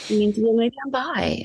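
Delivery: put-on teen boy. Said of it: "And he said".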